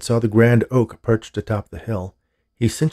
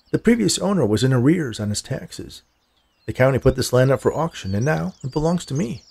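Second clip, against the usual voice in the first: lightly voiced male stranger, a little higher and lilting; affable stranger; 4 semitones higher than usual. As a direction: lightly play the man explaining his claim. Narrator voices the man, stating his claim.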